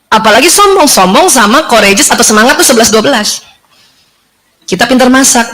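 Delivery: ordinary delivery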